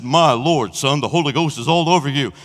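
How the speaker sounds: a stranger's awed blessing; old preacher's voice. Retold or imitated. Stranger speaks to him.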